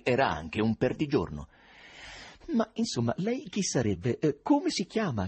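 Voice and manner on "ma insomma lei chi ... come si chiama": domanda acuta e insistente, sempre più severa; severo. Acted. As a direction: incalza con severità crescente. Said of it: "con modi sempre più severi". (il presidente pretende il nome, sempre più severo)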